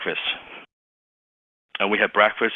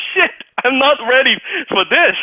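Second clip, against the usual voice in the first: panicked thought; 5 dB louder than usual. Retold or imitated. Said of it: "So I was like".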